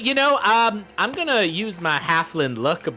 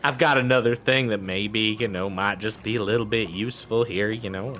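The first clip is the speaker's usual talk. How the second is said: folksy halfling voice. Acted. Halfling NPC speaking.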